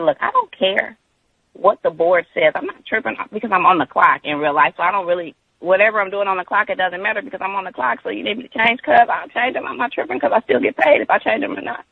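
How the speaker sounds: acted-out insistent reply over someone yelling. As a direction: lift the voice to be heard. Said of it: "I had to elevate my voice a bit".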